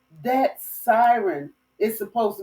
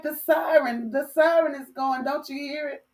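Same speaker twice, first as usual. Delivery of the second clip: frantic panic; 6 semitones higher than usual. Retold or imitated. Panicked reply to calm sister.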